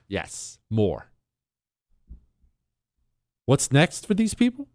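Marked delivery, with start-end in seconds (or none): 0.1-1.1 mock voter. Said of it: "went to the polls and said".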